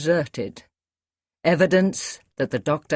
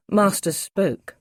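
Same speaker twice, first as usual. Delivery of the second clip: ordinary delivery, nothing marked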